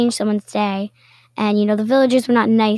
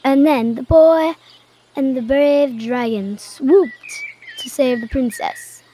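booming voice; 2 semitones higher than usual. Acted. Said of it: "read aloud in a booming voice".

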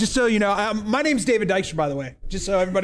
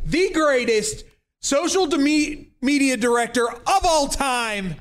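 slow, drawn-out hype announcer intro; big ceremonial introduction; grand introduction; 3 semitones higher, slower than usual. Shown as a demonstration. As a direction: announce them like a champion. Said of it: "do it how it's supposed to be done".

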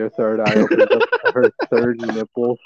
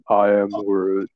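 slow, low monotone tree creature; lightly voiced creature, words drawn out; Groot; 4 semitones lower, slower than usual. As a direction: draw it out slowly and low. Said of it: "gonna be like Groot from Guardians".

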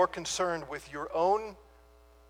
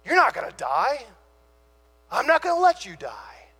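a disciple begging his master not to go, more insistent with each line; Peter pleading. Retold or imitated. Peter protests Jesus going to die.

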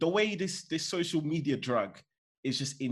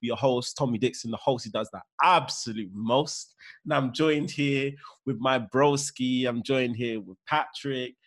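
podcast host intro; 2 semitones lower than usual. Acted. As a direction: open the show like a host.

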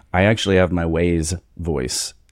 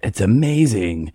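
lightly voiced Leeds fans, higher and slow; delighted Leeds locals; 4 semitones higher than usual. Leeds people hearing an American accent, mock-gushing and slow. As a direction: play the charmed locals begging him to keep talking, a bit mock-gushing. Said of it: "they would be like".

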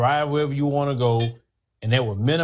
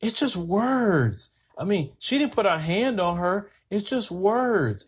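higher, slow, dismissive mock voice; mocking a defender; 4 semitones higher, slower than usual. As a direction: brush it off slowly, like a smug commenter. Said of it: "come in the comment section and say".

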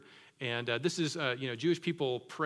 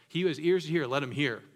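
proclaiming; 5 dB louder, faster than usual. Acted. Quoting Jesus with force.

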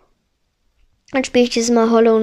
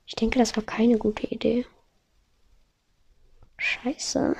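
whisper; 9 dB quieter than usual. Real, not acted. Losing lives in the game.

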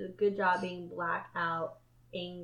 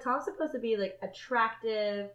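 slow disbelief; slower than usual. Retold or imitated. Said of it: "I was like".

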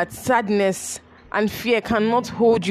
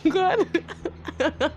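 high, teary laughing thanks; tearful thanks; 13 semitones higher than usual. Retold or imitated. Daughter thanking her dad through tears, high and teary. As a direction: cry it out with relief and joy. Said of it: "I was like".

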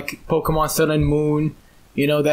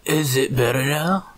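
glitchy robotic call audio. Real, not acted. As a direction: voice breaking up like a robot.

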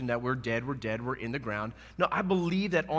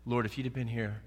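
calm and collected; 2 semitones lower than usual. Retold or imitated. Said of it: "Martha said it calm and coolly and collected".

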